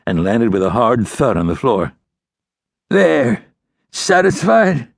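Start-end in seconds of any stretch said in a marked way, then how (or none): 2.9-4.9 high, pained, resentful outlaw voice; resentful wounded outlaw. A narrator's reading. Outlaw who just dropped his gun to the ranger, resentful. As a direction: throw it at the man who shot you.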